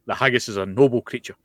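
mock-outraged Scotsman; hammed-up Scottish outrage, mildly done; angry Scotsman. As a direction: play up wounded national indignation. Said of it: "played up the angry Scotsman part".

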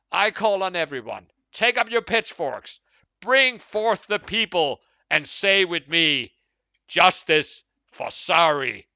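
loud, high and slow battle cry; angry rallying cry. Acted. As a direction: rouse the mob with pitchforks. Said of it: "I worked up to the angry man there".

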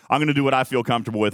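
quick, laughing restatement; laughing repeat. Shown as a demonstration. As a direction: toss it off with a laugh.

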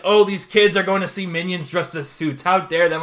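lightly hammed-up indignation; mock outrage. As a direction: act out people getting mad. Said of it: "I see people get mad".

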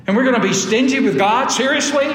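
Seriously? rising high, in disbelief; incredulous question. Acted. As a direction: ask Seriously? with a disbelieving rise.

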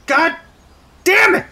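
loud pained curse; angry. Acted. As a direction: swear it out in pain. Hit again.

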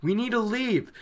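imitating a frantic inner voice; urgent inner plea. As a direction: act out begging someone to stop. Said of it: "Rand's in the back of his head going".

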